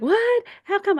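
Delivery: high, loud mock disbelief; shocked disbelief. Church lady hearing the speaker never gets flu shots. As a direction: echo the lady's squeaky alarm. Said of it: "And she's like".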